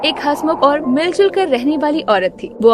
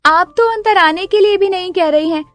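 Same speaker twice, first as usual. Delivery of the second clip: chatty neighbour. Acted. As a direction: sweet-talk as the pushy new neighbour. Neighbour invites herself in.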